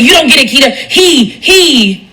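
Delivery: light mocking giggle; mock giggling dismissal. Mimicking the friend brushing her off with a giggle.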